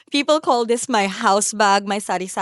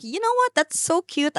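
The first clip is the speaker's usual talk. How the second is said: high squeal of delight at a cute bag; retold delighted squeal; excited self-quote; 9 semitones higher than usual. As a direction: pitch way up, thrilled by it. Own excited thought retold.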